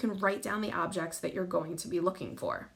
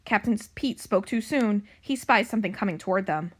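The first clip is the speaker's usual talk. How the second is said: animated storybook narration, louder than chat; story reading to children; 4 dB louder than usual. A narrator's reading. Librarian reading a pirate cat book to young pupils, animated narration. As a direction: read it out clearly for young listeners.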